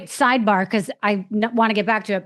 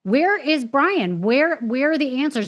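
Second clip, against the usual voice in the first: imitating a public outcry, pitched higher; drawn-out first question, insistent and higher; retold exasperated demand; 5 semitones higher, slower than usual. Everyone demanding answers about Brian, imitated with exasperation.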